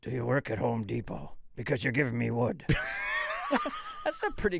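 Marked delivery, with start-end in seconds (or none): 0.0-2.6 Liam Neeson. Retold or imitated. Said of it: "is that Liam Neeson".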